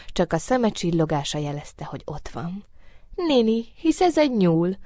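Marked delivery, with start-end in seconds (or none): 3.1-4.8 raised, delighted exclamation of discovery; higher-pitched, joyful surprise. A narrator's reading. Moonbeam spots a rabbit, delighted. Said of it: "örvendezett a holtsugár".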